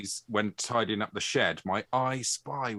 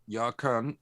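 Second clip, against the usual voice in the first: New Zealand accent attempt. Shown as a demonstration. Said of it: "do a bit of a New Zealand accent".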